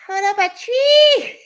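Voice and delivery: laughing yell, pitched far up and slow; laughing shout. Retold or imitated. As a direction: shout through a laugh at the toddler. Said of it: "I'm like".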